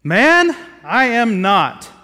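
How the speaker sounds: sharp, loud cry of "Man", then slow and heavy; Peter's denial. Acted. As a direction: deny it hotly, dragging out "I am not". Peter's heated denial in scripture.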